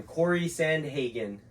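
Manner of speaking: slow, exaggerated mouthing; over-articulated. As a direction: spell it out with big lip movements. Mouthing names for lip reading.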